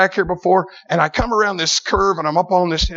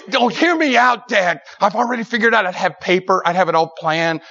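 pitched up, pleading a case; eager persuading; 3 semitones higher than usual. Acted. Son selling his plan to dad, eagerly persuading. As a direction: sell the plan like a young lawyer. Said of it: "I was like a lawyer, you know, trying to sell him".

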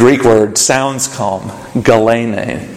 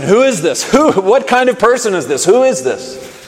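higher, amazed asking; bewildered question; 9 semitones higher than usual. Acted. Preacher voicing the disciples' question, bewildered. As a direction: ask in baffled wonder. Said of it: "disciples' question".

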